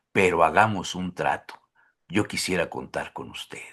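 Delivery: low, soft, measured love poem; poem recitation. Acted. Host reads Benedetti's poem to guest, tender recitation. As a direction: recite tenderly, pausing between verses, hushed ending.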